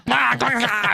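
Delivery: loud, high mock squawk; imitated character noise. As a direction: blurt out an obnoxious cartoon noise. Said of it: "a character that does that".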